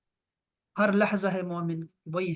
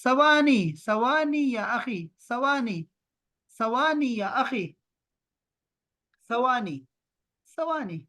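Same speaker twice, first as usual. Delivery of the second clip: slow, drawn-out "ثوانی یا اخی", a bit higher; asking for a few seconds; 3 semitones higher, slower than usual. Shown as a demonstration. Teacher acts out how Arabs ask for a few seconds, slow and drawn out. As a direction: stretch "ثوانی" like an Arab asking someone to wait. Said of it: "تو اس طرح بھی عرب میں بول-، بولتے ہیں".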